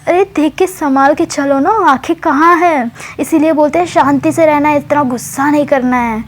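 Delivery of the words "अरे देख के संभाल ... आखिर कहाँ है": higher, rushed worried questions; a friend rushing over, startled and fussing; alarmed concern. Retold or imitated. Friend rushing to the injured girl, voice high and alarmed. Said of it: "मुस्कान भाग कर आती है".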